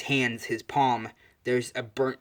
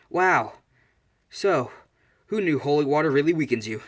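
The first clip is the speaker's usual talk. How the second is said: gleeful taunt; 3 semitones higher, 4 dB louder than usual. Retold or imitated. She starts laughing at his weakness, taunting. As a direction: needle the opponent, pleased with the discovery.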